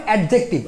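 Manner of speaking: অ্যাডজেক্টিভ with a hard "ad-jek-tib"; common mispronunciation. Shown as a demonstration. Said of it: "এটার উচ্চারণ কেউ কিন্তু বলে".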